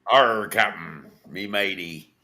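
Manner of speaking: pirate voice. Pretend. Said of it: "like a pirate".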